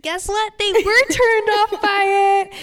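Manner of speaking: high, loud ironic reveal; spring the punchline loudly; emphatic. Real, not acted. Sarcastic reveal of bad outcome.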